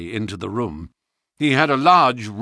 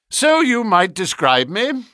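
cheerfully; 11 semitones higher, 5 dB louder than usual. A narrator's reading. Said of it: "said Holmes cheerfully".

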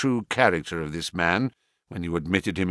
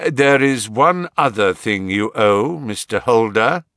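firm, louder, stern reproach; rather sternly; 5 dB louder than usual. Acted. Holmes sternly reminding the banker of his debt. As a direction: lay down the debt he owes. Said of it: "rather sternly".

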